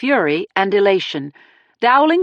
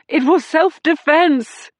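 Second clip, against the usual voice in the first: protesting; 7 semitones higher, slower than usual. A narrator's reading. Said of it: "Dowling was still protesting".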